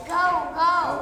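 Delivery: dog bark. Pretend. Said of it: "What does the dog say".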